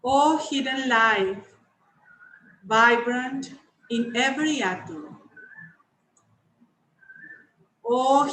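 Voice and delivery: measured prayer recital with long pauses; invocation. Acted. Host leads the meeting in the universal invocation, measured prayer. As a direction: recite it phrase by phrase, reverently.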